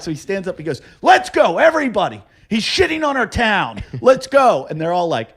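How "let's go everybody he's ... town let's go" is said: indignant crowd-rousing shout, retold; mock rallying cry. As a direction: call out to rouse a whole crowd. Heckler stands up rallying crowd.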